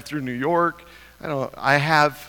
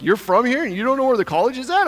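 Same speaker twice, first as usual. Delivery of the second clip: high, fast, incredulous scolding; acted exasperated outburst; retold laying-into; 9 semitones higher, 5 dB louder, faster than usual. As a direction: lay into him, louder and faster. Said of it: "laying into this guy".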